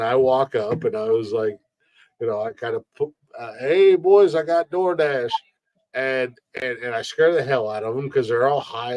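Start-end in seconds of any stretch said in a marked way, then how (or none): 3.6-5.3 louder, higher delivery call; cheerful call-out. Retold or imitated. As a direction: announce food to a room of guys. Calling out to college guys at window.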